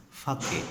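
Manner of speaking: "fake" said in two syllables, fa-kay; two-syllable "fake", ending in -kay; shown pronunciation. Shown as a demonstration. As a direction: say "fake" as FAH-kay, for the Japanese drink. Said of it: "it is pronounced as".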